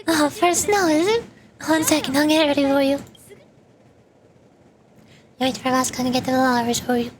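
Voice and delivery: lightly voiced eager florist; cheerful shopkeeper. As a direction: welcome the customer like a chirpy shop clerk. Shopkeeper serves the customer.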